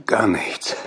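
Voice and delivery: unvoiced whisper. Whispered dream recall.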